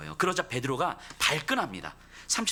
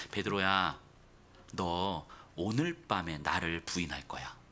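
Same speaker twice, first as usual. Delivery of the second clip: lower, softer, slow and kindly; gently amused; 9 semitones lower, 4 dB quieter, slower than usual. Retold or imitated. Jesus calmly answering boastful Peter, lower, softer and kind. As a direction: smile it out, untroubled by his boast. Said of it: "넉넉하게 웃으시면서 이렇게 말씀하시는".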